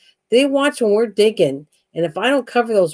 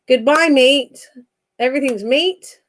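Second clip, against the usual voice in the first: put-on Australian accent; 5 semitones higher than usual. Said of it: "what do you say to Australia".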